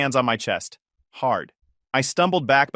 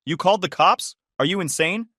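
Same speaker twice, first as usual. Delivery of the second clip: high indignant question; aghast at him; outraged disbelief; 6 semitones higher than usual. Acted. Wife outraged at police call.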